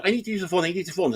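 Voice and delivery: high, lightly voiced frantic lady; urgent customer. Lady runs in, urgent, retold.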